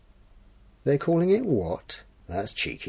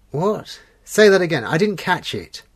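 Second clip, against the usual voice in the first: loud, high voice asking again; shouting down a bad line; 5 semitones higher, 6 dB louder than usual. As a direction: raise your voice over a bad connection. Shouting over a bad phone line.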